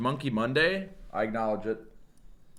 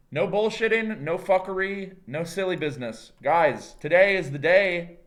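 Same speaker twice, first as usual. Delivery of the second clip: hyped up; 4 semitones higher, 4 dB louder than usual. Real, not acted. Hyping himself up for the run.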